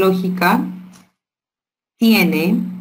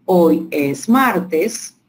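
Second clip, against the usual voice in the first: very slow, words spaced out; teacher dictating slowly to a child; slow example; much slower than usual. Shown as a demonstration. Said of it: "yo te digo".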